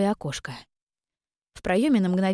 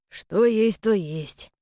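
jolly guard voice; 3 semitones higher, much slower than usual. A narrator's reading. Chuckling guard pats belly.

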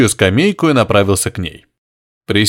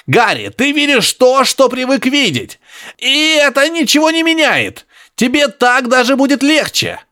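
high grunting professor; 12 semitones higher than usual. Acted. Professor insisting to Harry over radio, high grunting. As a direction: press it on him, high and piggy.

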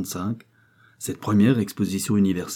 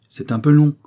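with a smile; 7 semitones higher, 9 dB louder than usual. A narrator's reading. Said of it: "avec un sourire".

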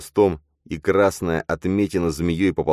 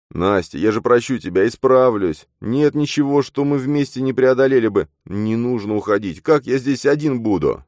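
desperate begging; 8 semitones higher, 5 dB louder than usual. Acted. Matvey begging her to stay.

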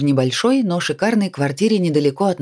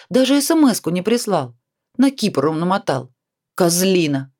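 indignant outburst; 5 semitones higher than usual. Acted. Indignant friend scolding the ex.

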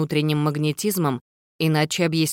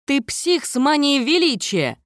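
high-pitched, incredulous exclamation; stunned, pitched well up; stunned outburst; 10 semitones higher than usual. A narrator's reading. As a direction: blurt it out in shock. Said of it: "Я выпалила ошеломлённо".

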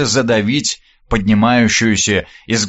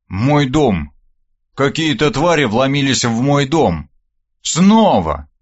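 growling bugbear. Acted. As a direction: growl it out, furious. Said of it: "рыкнул я в ответ".

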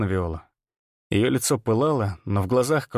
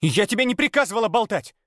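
haughty scolding; 9 semitones higher than usual. A narrator's reading. Viola scolding mercenary.

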